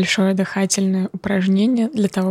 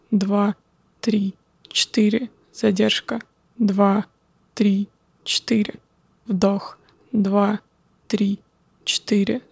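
calm, slow counting of breaths; slower than usual. Acted. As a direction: count the breaths slowly and calmly. Guides a breathing exercise.

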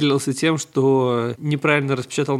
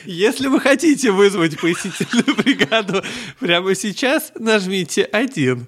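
phone menu voice; 3 semitones higher than usual. Pretend. Automated phone menu parody.

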